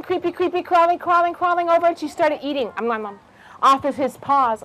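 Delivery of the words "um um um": mouse nibbling. Acted.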